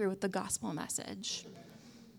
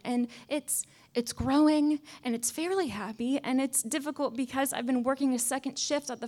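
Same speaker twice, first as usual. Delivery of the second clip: higher, lightly voiced pleading shrimp; a small worker begging for his life, pitched up; little shrimp voice; 4 semitones higher than usual. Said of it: "in this voice".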